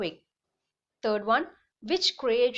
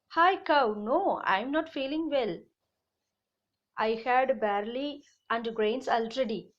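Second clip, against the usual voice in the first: horse voice. Acted. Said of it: "That horse said".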